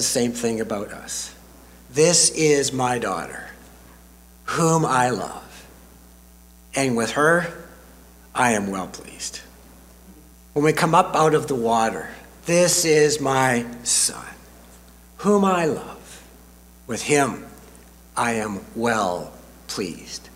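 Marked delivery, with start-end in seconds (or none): 1.9-9.4 tender voice of God. Acted. Imagined God speaking to us. 12.5-20.3 tender voice of God. Acted. Repeating God's words, fading softer.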